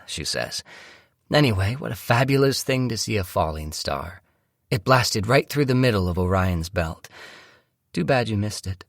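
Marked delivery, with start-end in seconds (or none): 1.3-8.8 slightly higher voice for the wife; a touch of wonder in a lifted voice; lightly voiced delighted wife. Wife enthusing about the falling star, mildly delighted. Wife's voice in story narration.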